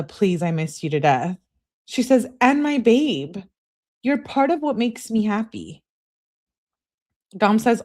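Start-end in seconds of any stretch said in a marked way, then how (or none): 2.4-5.8 higher acted lovesick voice; imitated needy girlfriend; pleading. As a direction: coax the boyfriend, mock-earnest. Acts out girlfriend's lovesick texts.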